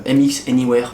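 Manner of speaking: English product name in a French accent. Real, not acted. Vlogger naming a mouse model, in a real French accent. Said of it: "avec mon magnifique accent français".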